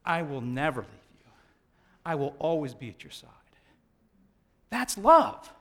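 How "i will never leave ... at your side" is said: soft, low, tender vow; a gentle reassuring promise, quietly. Retold or imitated. Husband comforting his wife with dementia, tender and soft. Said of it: "with tears running down his face".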